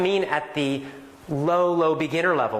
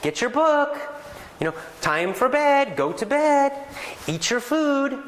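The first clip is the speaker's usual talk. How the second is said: put-on parent's commands to a child; 11 semitones higher than usual. Shown as a demonstration. A parent giving simple commands to a small child, high and firm. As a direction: tell a small child what to do. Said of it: "for example".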